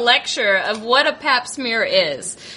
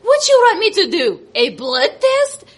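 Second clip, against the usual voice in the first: louder, quicker mock doctor; imitating the doctor, louder and fast; doctor's voice; 4 semitones higher, 3 dB louder than usual. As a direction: snap it back fast like the doctor. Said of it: "And then she goes".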